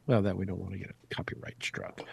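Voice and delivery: breathy whisper, no voice; whispered aside. Real, not acted. Host whispers to co-host about copyright, hushed. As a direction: hush it like a secret aside.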